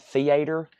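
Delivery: theater in own accent, "thee-AY-ter". Shown as a demonstration. Seller showing viewers their accent on theater, own accent. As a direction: say theater with the stressed long AY of a regional accent. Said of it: "The way I say theater in my accent".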